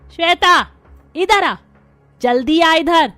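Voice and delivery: second, sharper call of the name; insistent call. Acted. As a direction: call again, now losing patience.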